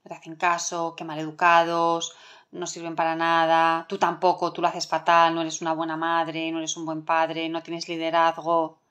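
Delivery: lightly acted inner critic, low monotone; voice of frustration. Frustration listing a parent's failings, as a low, monotone inner voice. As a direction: reel off reproaches in a low, even drone. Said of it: "la emoción frustración que nos dice".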